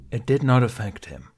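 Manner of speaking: firm stress on did; insisting. Acted. Qui-Gon insisting to Ben, stress on did. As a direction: lean hard on did. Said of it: "Qui-Gon insisted".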